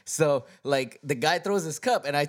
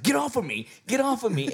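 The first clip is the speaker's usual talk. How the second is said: higher-pitched imitation of an upset friend; mock serious snapping; 9 semitones higher than usual. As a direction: act out an annoyed brush-off, pitched up. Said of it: "Edwin just got so serious".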